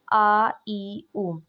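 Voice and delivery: آ ای او said lightly with no push; light unforced آ ای او; light hamza sound. Shown as a demonstration. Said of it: "light sound ہے".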